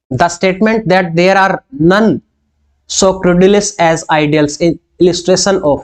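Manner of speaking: dictating a quiz question, word by word; teacher reading an exam question slowly. Acted. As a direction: read the question slowly and deliberately. Reads quiz question aloud.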